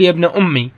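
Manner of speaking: "أمي" with a full final ee; ya kept. Shown as a demonstration. Teacher shows the third dialect form, ya pronounced. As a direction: sound the ya at the end of "أمي". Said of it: "أمي بالياء".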